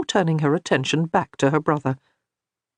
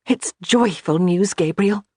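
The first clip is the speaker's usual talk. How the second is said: teasing, slow and pointed; wry remark; 3 semitones higher than usual. A narrator's reading. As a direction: Johanna teases her stunned husband, pointedly. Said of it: "she remarked".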